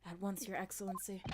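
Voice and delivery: low, soft, dutiful reply; deep inspector voice. Acted. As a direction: answer like a loyal inspector, low. Voicing Hosonaga, low.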